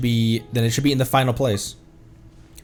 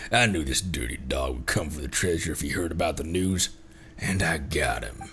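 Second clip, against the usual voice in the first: lower, softer gloating voice; gloating captor; 9 semitones lower, 7 dB quieter than usual. Acted. Streamer voicing a villain who caught the thief, low gloat.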